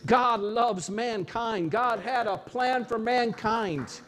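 slow and tender, every word given room; slow sincere affirmation. Real, not acted. Preacher reassuring the congregation of God's love, slow and sincere. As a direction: say it gently, as a heartfelt truth.

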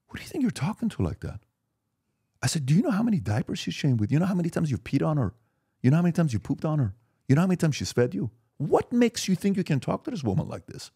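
high, heated scolding of a disrespectful son; a father raging at his son for disrespecting the nanny; retold furious scolding. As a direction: let the outrage climb as you tear into him. Father confronting son over nanny.

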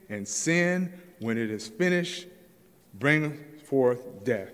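slow, weighty pulpit reading; slow scripture reading. Acted. Preacher reads James to the church, slow and weighty. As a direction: let each phrase land slowly.

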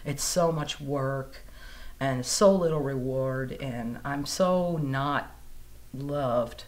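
mild despair after surgery; recalling her low point, a touch of gloom; dejected thought. Retold or imitated. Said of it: "And I thought".

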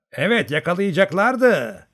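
slow, high, hurt retort; offended. A narrator's reading. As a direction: sound stung and offended. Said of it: "gücenmiş bir tavırla". (gücenmiş bir tavırla)

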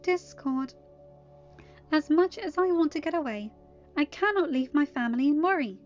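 firm refusal in a high character voice. Acted. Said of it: "she said firmly".

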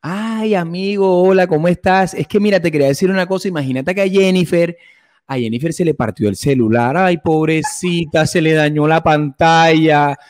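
imitando a un amigo exagerado y cantarín; amiguito gay. Pretend. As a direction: chismosa y dramática, con "ay" alargados. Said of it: "el amiguito gay". (imitación ligera de amiguito gay)

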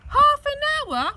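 very high, loud and slow; outraged repeat. A narrator's reading. Father repeating the figure in outrage, slow loud yell. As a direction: drag out the disbelief. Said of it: "repeated Dad".

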